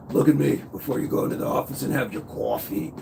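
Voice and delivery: put-on playful Boston accent aimed at Angie. Teasing chat member Angie in a light Boston accent. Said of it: "I'm doing Boston accent now".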